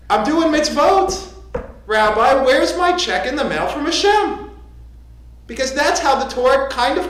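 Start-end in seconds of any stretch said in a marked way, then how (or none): 0.1-4.5 higher, indignant congregant act; lightly acted grievance, pushing the question; mock complaint. Congregant demands a reward from the rabbi, mock indignant.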